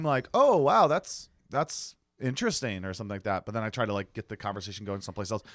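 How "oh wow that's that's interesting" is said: noncommittal politeness. Retold or imitated. Passenger avoiding being the driver's friend, noncommittal. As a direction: imitate polite, guarded interest. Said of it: "but not being his friend".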